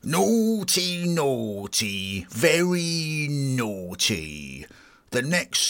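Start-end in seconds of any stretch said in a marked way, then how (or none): 0.0-1.0 high, sing-song teasing Naughty. Pretend. Guest teasing listeners about the song, high mock warning. 2.3-4.6 very slow, drawn-out mock scold. Guest warning listeners about the song, slow mock scold.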